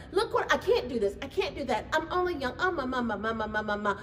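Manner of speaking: lightly hammed-up nervous dithering; mock whiny excuses. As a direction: play the squirming excuse-maker.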